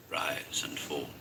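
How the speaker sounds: soft unvoiced repeat of "rise and fall"; whispered echo. A narrator's reading. Narrator echoing the gulping throat in a whisper.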